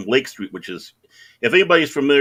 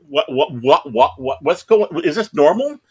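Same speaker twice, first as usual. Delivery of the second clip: higher, stammering imitation of a confused newcomer; mock bewilderment, stumbling over the first word; flustered new-guy voice; bewildered rookie; 6 semitones higher than usual.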